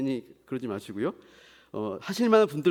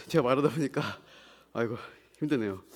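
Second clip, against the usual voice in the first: out of breath; 4 semitones lower, faster than usual. Real, not acted. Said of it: "제가 숨이 차서".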